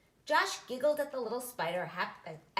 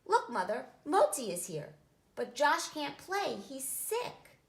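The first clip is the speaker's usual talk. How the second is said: excited; 5 semitones higher, 3 dB louder than usual. Acted. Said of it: "Sammy was excited".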